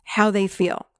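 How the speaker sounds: slow, deliberate coaching with long pauses; measured guidance, leaving space after each instruction. Shown as a demonstration. Therapist guiding a client to the inner child, slowed down. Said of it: "I'll have them slow down".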